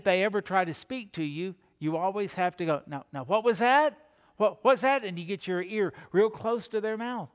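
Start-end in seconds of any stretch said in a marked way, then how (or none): 2.9-5.0 slightly raised, questioning bedside voice; mildly acted attempt to catch faint words; straining to hear. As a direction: lean in and ask, a little higher. Straining to hear a dying person.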